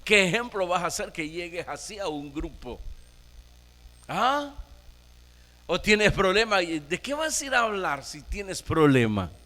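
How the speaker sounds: lightly voiced devil sowing doubt; tempting Satan. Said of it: "diciéndole".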